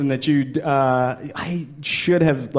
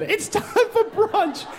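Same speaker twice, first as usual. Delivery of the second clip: posh mother repeat; much slower than usual. Retold or imitated. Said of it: "That's what the woman said".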